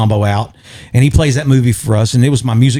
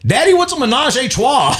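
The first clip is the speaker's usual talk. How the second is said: put-on child voice; 13 semitones higher than usual. Retold comedian joke, kid voice.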